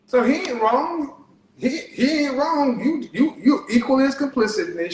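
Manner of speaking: rising, scolding and emphatic; calm turning angry. Real, not acted. Rising scolding about the kids.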